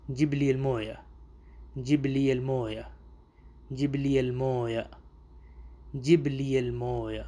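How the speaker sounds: جب لی المویا repeated slowly, word by word; slow drill. Shown as a demonstration. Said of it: "میرے لیے پانی لاؤ". (آہستہ مشق)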